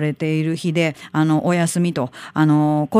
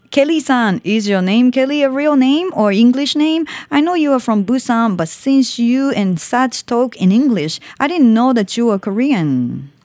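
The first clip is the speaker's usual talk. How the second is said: reading a listener letter; 4 semitones higher, slower than usual. Retold or imitated.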